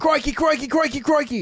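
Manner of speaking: crikey in a big put-on Australian accent, played for laughs; mock Australian accent. Host mimicking the Australian listener's story in a hammed-up Australian accent. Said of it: "Australians actually say crikey".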